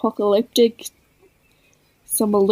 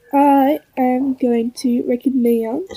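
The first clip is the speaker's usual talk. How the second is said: put-on French Canadian accent; slower than usual. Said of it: "poaching my shitty French Canadian accent".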